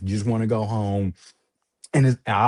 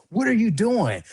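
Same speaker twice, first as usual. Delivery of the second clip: mock yell; 9 semitones higher than usual. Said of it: "They said".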